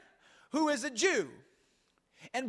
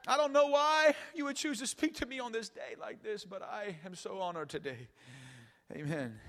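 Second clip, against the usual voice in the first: honored woman; 3 semitones lower than usual. Acted. Samaritan woman overwhelmed that Jesus speaks to her, mock-honored. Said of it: "read this verse a little like this".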